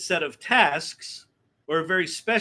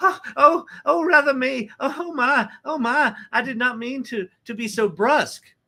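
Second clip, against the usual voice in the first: slow, high, put-on Southern belle drawl; 6 semitones higher than usual. Imitating a colleague who apologizes after all-caps typing: mock southern belle apology. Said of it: "what I did was more like Louisiana".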